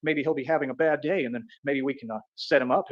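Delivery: lightly voiced plotting enemies; mocking the schemers. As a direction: play the plotters, low and sneaky.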